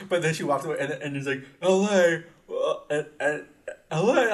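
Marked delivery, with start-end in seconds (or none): 1.6-4.3 "L A?" pushed up high and loud in disbelief; imitating a baffled vendor; incredulous. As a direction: echo it back, puzzled. Vendor questioning her answer.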